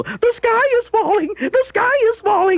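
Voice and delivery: high squeaky mock panic; Chicken Little panic. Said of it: "running around here like Chicken Little".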